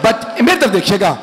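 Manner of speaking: mournful majlis recitation, steady and drawn; preaching recitation. Acted. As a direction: recite the martyrdom to a grieving gathering. (मजलिस में दर्द भरा बयान)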